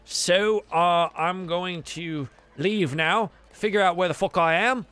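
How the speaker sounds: lightly voiced sailor taking his leave; a hint of a put-upon crewman making his exit; ship hand eager to leave.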